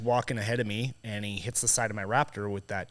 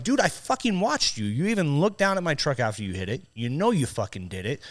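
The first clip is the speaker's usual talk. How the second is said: indignant, high-pitched opening that settles; retold accusation; 5 semitones higher than usual. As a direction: reenact calling out his lie.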